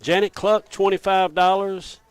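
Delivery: speaking up. Real, not acted. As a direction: keep projecting each winner and price. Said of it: "I've been told to speak up".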